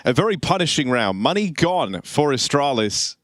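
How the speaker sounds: steady caster narration of the round; walk the viewers through each duel; live play-by-play. Acted. Caster tells viewers the round is slipping away, play-by-play.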